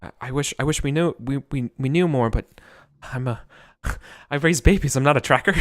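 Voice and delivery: lightly voiced flustered villager; a touch of helpless worry; halfling villager. GM speaking as the villager to the adventurer. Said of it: "He's saying".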